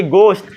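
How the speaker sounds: "गोश्त" as gost, hard plain G; no puff after G in "गोश्त"; silent H. Shown as a demonstration. Teacher confirms it to his friend, H silent in "गोश्त". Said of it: "इसे कहेंगे गोश्त".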